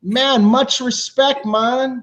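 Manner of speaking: slow, drawn-out mock Jamaican respect, pitch up; light faked Jamaican accent; fake Jamaican accent. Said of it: "my Jamaican accent is false".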